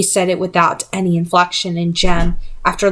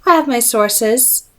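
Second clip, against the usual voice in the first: smug; 3 semitones higher, slower than usual. Acted. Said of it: "Her lips curled".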